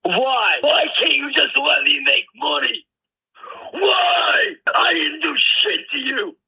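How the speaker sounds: cry shout. Real, not acted. Upset man pleading over lost income.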